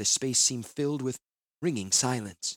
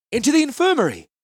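loud command, much higher; shouted order; 10 dB louder, faster than usual. Acted. Healer ordering the wounded taken below, a loud shout. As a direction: call the order across the deck. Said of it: "I shouted".

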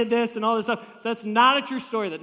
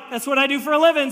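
mock boast; 4 semitones higher, 6 dB louder, faster than usual. Boastful pastor in parody.

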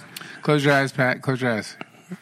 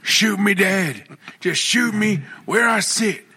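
slow, higher melodramatic plea; mock dramatic; 5 semitones higher, slower than usual. Refusing to do a girl voice, melodramatic. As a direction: beg for death with mock drama.

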